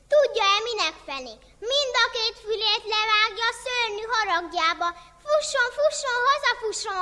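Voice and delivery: high, loud frantic pleading; urgent warning. Acted. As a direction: scare him off with urgent cries. Zsuzsi frightens the guest.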